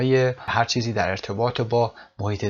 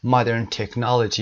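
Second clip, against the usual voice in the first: 1 slow model phrase; much slower than usual. Shown as a demonstration. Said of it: "teacher repeats the phrase slowly".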